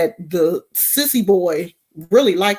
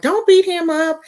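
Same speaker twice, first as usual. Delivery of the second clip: put-on girls' voice; 11 semitones higher than usual. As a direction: play the girls shielding the boy. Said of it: "it was the girls that were like".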